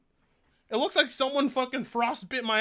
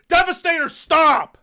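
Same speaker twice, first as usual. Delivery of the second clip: louder sharp command; loud exasperated stop; 3 semitones higher, 8 dB louder than usual. Real, not acted. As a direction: shut the chat down. Scolding chat gifting.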